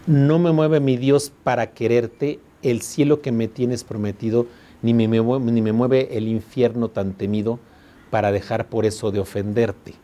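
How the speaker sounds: slow, measured verse reading; poem recital. Shown as a demonstration. Teacher reciting the sonnet again for the class, slow. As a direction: draw out the opening line. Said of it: "¿No habían escuchado esta palabra?".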